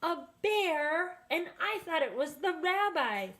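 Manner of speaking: high surprised exclaim; astonished. A narrator's reading. Baba Brena learns it was a bear, high astonished exclaim. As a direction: gasp it in disbelief.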